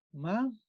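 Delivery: "maíz" as ma, pause, íz; split into syllables. Shown as a demonstration. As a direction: break "maíz" in two with a clear gap. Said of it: "También ahí la separamos".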